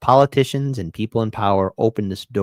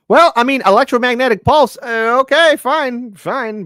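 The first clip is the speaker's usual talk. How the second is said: much higher, louder exasperated squeak; high mock voice; 12 semitones higher, 7 dB louder than usual. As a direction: squeak it out like a flustered character.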